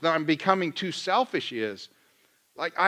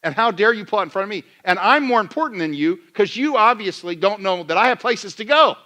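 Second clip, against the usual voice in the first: mock entitlement; 4 semitones higher, 3 dB louder than usual. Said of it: "what I'm saying".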